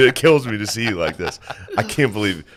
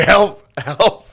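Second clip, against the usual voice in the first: much higher, louder mock cry for help; 11 semitones higher, 5 dB louder than usual. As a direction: squeal it like a panicked friend. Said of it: "He was like".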